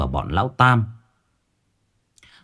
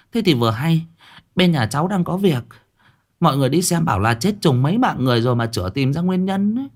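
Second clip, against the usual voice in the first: deferential plea; 5 semitones higher than usual. Acted. Liên asks the master for help.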